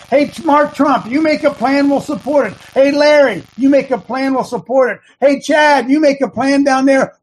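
loud, high, emphatic calls to take charge; yelling at the guys. Retold or imitated. Coach yelling at his men to make their own plan. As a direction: belt it out like a fired-up coach. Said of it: "in fact, I yelled".

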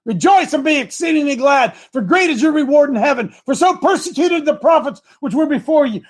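a rising preacher's reading of scripture; building from plain reading into preaching. Acted. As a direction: lift the verses as you read them. Reads scripture aloud.

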